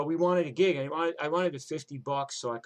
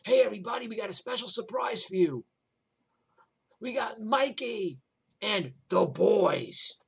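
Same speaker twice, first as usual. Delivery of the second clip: much higher, louder club announcer; 8 semitones higher, 6 dB louder than usual. Retold or imitated. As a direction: hype the band like an MC. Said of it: "and he goes".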